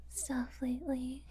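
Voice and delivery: hushed whisper, slow. Acted. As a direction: drop to a whisper. Lowered voice about bad times.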